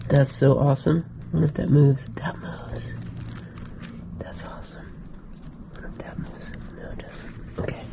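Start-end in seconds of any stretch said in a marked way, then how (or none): 2.2-4.8 soft breathy whisper over the find. Real, not acted. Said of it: "Why am I whispering?". 5.8-6.5 whispering. Real, not acted. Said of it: "Why am I whispering?". 6.8-7.8 soft breathy whisper over the find. Real, not acted. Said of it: "Why am I whispering?".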